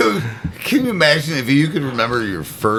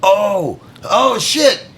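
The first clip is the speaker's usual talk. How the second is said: put-on panicked baby voice; 7 semitones higher than usual. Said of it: "Suddenly you're like".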